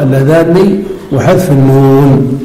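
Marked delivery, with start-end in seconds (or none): 0.0-0.8 اللذان with the nun held long and doubled, then kasra. Shown as a demonstration. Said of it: "وإثبات النون مشددة مكسورة".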